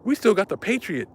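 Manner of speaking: high mock outrage over old missiles; pissed-off prepper. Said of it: "He's like".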